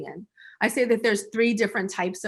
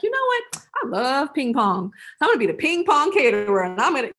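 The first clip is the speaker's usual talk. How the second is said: excited; 4 semitones higher, 4 dB louder than usual. Retold or imitated. Hypothetical client excitedly pitching herself.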